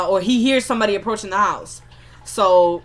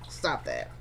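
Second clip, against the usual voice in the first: deep mock scolding; 13 dB quieter than usual. Scolding in a put-on voice.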